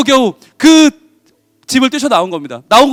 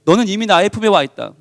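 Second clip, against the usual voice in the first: lower, calm, reassuring words from above; gentle voice of the Lord; 4 semitones lower than usual. Acted. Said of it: "우리 주님 말씀하시죠".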